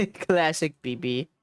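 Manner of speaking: slow, amused "Classic B B" through a laugh. Shown as a demonstration. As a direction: draw out "Classic B B" slowly while chuckling.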